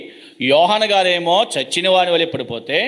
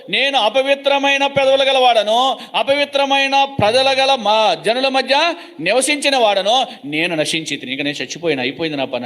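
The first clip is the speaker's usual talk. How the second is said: weeping confession; 5 semitones higher than usual. Retold or imitated. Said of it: "అని ఏడుస్తూ దుఃఖపడుతూ".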